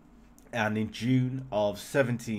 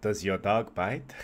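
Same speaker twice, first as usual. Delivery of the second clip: terrible Clouseau. Acted. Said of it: "That was a terrible Clouseau impression".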